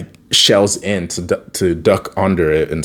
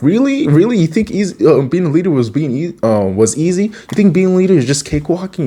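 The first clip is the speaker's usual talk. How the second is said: high-pitched mock indignation; acted incredulous lecture, pitched up; scolding master; 9 semitones higher than usual. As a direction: imitate a master telling off a student. Acting Master Splinter scolding.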